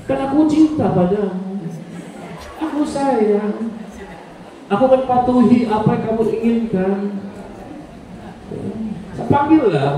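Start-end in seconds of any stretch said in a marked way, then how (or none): 0.0-7.0 lightly voiced devoted wife; tender wife. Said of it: "Pakai gayanya wanita".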